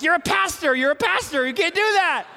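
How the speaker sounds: high, scolding you're a pastor; a stern inner conscience warning; lightly voiced reproving conscience. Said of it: "and I was like".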